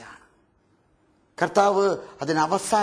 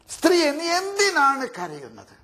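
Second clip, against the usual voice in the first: pleading question; 6 semitones higher than usual. Acted. Repeated question, raised.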